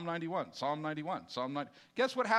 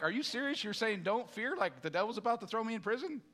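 1 incredulous. Retold or imitated. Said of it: "That naturally would be like".

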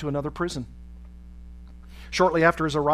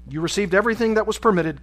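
louder, higher, brusque reply; 5 semitones higher, 6 dB louder than usual. A narrator's reading. Officer refusing the prisoner's demand, brusque and loud. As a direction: shut the request down brusquely. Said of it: "came the brusque reply".

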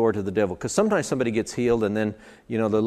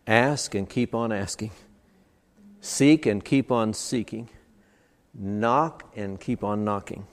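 "Ask and keep on asking" said slowly, pressing on each "keep on"; slow, insistent imperative; slower than usual. Shown as a demonstration. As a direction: drag out "Seek and keep on seeking" like a steady command. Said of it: "You know what the imperative says?".

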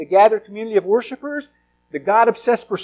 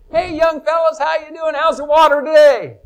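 put-on old fish; 6 semitones higher than usual. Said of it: "the older fish just looks over and says".

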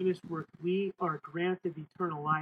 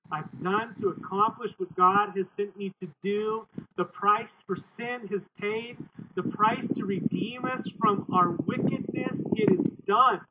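rising proclamation; 3 semitones higher, 5 dB louder than usual. Retold or imitated. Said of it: "and he goes".

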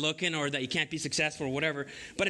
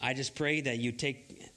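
prayer; 3 semitones lower than usual. Real, not acted. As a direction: pray gently over the congregation. Pastor leads prayer.

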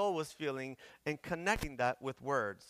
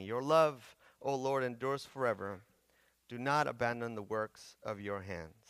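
scripture reading; 2 semitones lower than usual. Acted. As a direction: read it like scripture in church. Reads psalm aloud to congregation.

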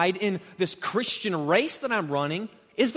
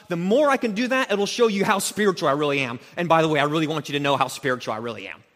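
mocking ascetic. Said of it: "said this".

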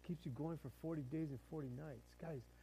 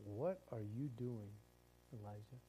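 calm divine questioning; 4 semitones lower, 5 dB quieter than usual. Acted. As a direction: ask it quietly, letting the name drop softly. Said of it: "kinda was in that tone".

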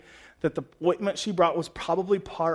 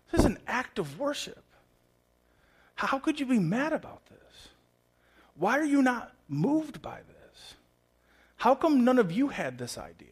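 gentle pleading Jesus; 7 semitones higher than usual. Acted. Jesus voiced pleading with disciples.

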